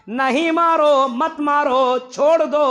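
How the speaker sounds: retold order to hold back; urgent command. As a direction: call them off firmly. Prophet stops companions beating man.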